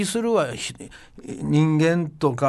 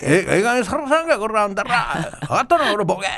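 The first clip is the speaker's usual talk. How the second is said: higher, half-hammed Osaka tirade; mock furious dialect threat; 4 semitones higher than usual. Leader yelling at the neighbouring country, hammed-up dialect threat. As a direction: snarl it like a mock gangster. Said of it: "さすが上手やな".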